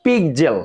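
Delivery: পিকজেল with a voiced kz; correct pronunciation. Shown as a demonstration. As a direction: model পিকজেল with kz. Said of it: "এটা হচ্ছে".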